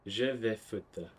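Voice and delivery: slow, deliberate French; slow demo. Shown as a demonstration. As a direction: lay the phrase out slowly for the class. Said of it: "repeating the French phrase".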